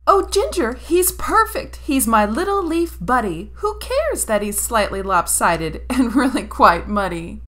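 put-on very high, loud, thrilled child; delighted boy. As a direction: gush over the snowman. Tommy delighted by snowman.

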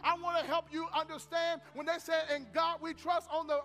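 forceful sermon delivery with stretched key words; emphatic preaching. Acted. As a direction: drive the lesson home to the congregation.

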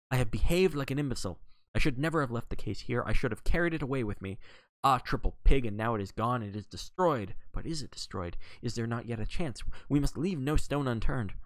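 mild hammed-up fury at himself; self-reproach in anger. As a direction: scold yourself hotly. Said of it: "his anger burst forth freely".

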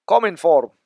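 loud, hammed-up Russian accent; mock Russian accent. Name repeated in mock Russian accent.

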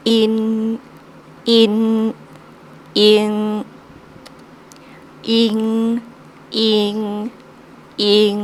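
each pinyin sound read slowly and clearly, each one repeated; pinyin drill. Shown as a demonstration. Teacher drilling pinyin sounds for students. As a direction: drill ยา เย โย ยัน อิน อิง ยัง one by one. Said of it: "ตัวนี้อ่านว่า".

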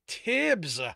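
loud, high exasperated call; pleading cry. A narrator's reading. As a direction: cry the name out imploringly. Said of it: "Sto pleaded".

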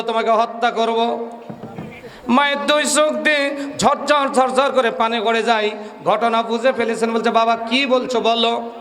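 forceful, declamatory Bengali sermon delivery; waz preaching. Real, not acted. Preacher telling a gathering the story behind the verse, oratorical. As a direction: preach it to the crowd in long, ringing phrases.

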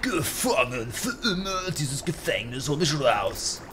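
slow, drawn-out eerie voice; distant distorted voice. A narrator's reading. Game text's trapped stranger calls out, in a distant distorted voice. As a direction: speak slowly, as a distorted voice from far off. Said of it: "Eine ferne verzerrte Stimme".

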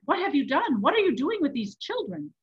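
loud, swooping anguished questions; crying out. A narrator's reading. Cowering man challenges the monk, crying out. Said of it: "he cried".

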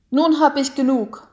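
angry outburst. A narrator's reading. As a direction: burst out at her in rage. Golo's outburst.

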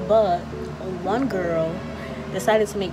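muffled behind mask; talking into surgical mask; through a face mask. Real, not acted. Seen 0: Speaker wears a surgical mask over mouth and nose throughout.

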